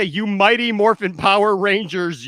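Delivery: announcer voice. Retold or imitated. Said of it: "when they actually say".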